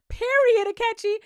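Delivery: high breathy Period, Akechi; whispered cheer. Real, not acted. Vlogger cheering Akechi a third time, whispered hype.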